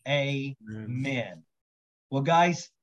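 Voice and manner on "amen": earnest spoken prayer, steady rhythm; praying aloud. Acted. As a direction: pray over them like a pastor. Leads group prayer aloud.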